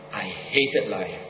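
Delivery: low, slow, grieving; heavy grief. Real, not acted. Preacher confessing his despair to the congregation, slow and low. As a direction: let each word sink, broken. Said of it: "repeated confession".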